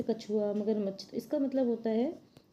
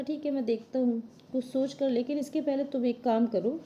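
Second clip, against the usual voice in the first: turtle voice; 4 semitones higher than usual. Acted.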